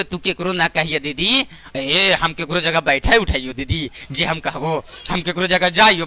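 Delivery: lightly voiced village woman confiding; whispering gossip. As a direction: lean in and spill the secret. Woman gossips again at next gathering.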